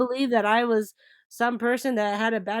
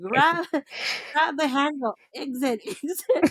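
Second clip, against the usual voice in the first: mock panic; 7 semitones higher than usual. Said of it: "And I was like".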